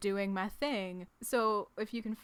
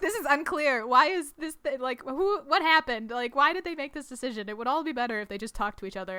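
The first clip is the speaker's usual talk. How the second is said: mock rant, higher and louder; exasperated dad; 4 semitones higher, 6 dB louder than usual. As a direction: pile up baffled complaints as the imitated dad. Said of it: "their dad is just like".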